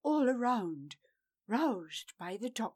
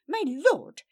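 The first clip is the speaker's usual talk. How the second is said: higher, louder pleading; higher, louder plea; desperate plea; 6 semitones higher, 10 dB louder than usual. Acted. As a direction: beg him loudly. Vala pleading.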